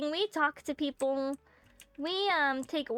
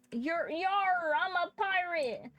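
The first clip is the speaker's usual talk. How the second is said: pirate voice; 6 semitones higher, slower than usual. Acted. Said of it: "I don't know how to do a pirate voice".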